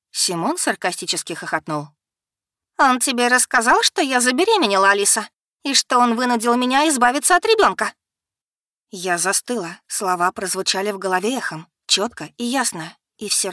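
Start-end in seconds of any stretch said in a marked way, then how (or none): 2.8-7.9 high, loud revelation; с горечью и злостью; bitter outburst. Acted. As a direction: hurl the secret at them. Becky reveals the abortion.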